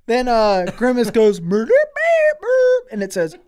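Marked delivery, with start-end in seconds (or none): 1.4-2.9 high, slow mock machine voice, drawn out; hammed-up game-show buzzer voice; robotic game show beep. Cash Cab machine announces murder.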